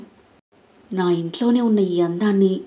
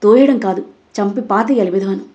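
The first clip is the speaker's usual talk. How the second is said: furious; 3 dB louder than usual. Acted. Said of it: "ఆగ్రహంగా".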